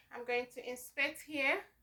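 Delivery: ordinary delivery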